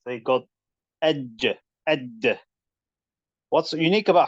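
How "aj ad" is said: AJ and AD stopped hard, then released; isolated syllables with a strong consonant stop; strong-letter demo. Shown as a demonstration. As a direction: hit the final consonants of "aj" and "ad" firmly. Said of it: "Strength is huruf al-shidda".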